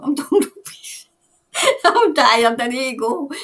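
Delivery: loud tired laugh, breaking up at the end; giggly and tired. Real, not acted. Streamer laughing at her own tiredness while signing off, giggly. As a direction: giggle helplessly as you give up for the night.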